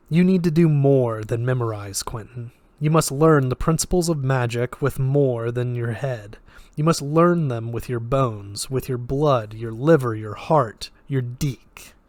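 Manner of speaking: put-on flat, lightly Russian-accented voice; detached, with a hint of Russian; slight Russian accent. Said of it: "slight Russian accent".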